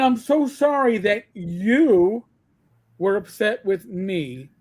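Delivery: slow, mock-tearful fake apology; badly faked sob-story sorry; fake crying apology. Mocking an influencer's tearless apology with fake crying. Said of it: "it was fake and faux at the same time".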